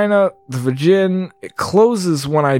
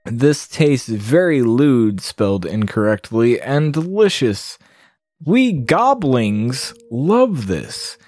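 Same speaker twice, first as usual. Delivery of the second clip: slow goblin voice; slower than usual. Acted. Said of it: "Goblin Guard".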